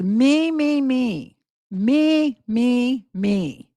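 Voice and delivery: drawn-out, separated mock-whine on each word; mocking self-absorption. YouTuber mocking a crying mother's self-pity, mockingly. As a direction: mimic someone who thinks only of herself.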